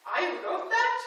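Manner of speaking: high, astonished question; amazed disbelief at his own words; father in disbelief; surprised dad. Retold or imitated.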